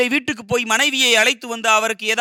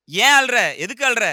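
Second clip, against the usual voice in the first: scolding husband; 4 semitones higher, 5 dB louder than usual. Retold or imitated. Husband scolds crying wife.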